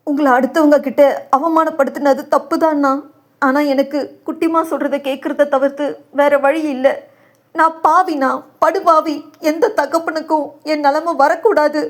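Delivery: high, anguished self-reproach; anguished lament. Acted. Broken father curses himself before his brother, anguished.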